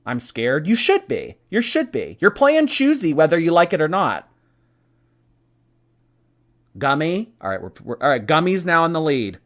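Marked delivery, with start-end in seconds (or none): 0.7-4.3 mock menacing. Answers "I'm scared" with menace.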